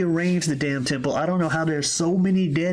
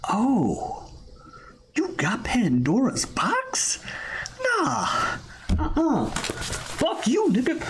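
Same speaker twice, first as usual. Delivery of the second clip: high, jeering god voice; mock Ares taunting; 9 semitones higher, slower than usual. Ares taunting Kratos over the box, high jeering voice. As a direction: sneer it like a cocky war god. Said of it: "fucking Ares is like".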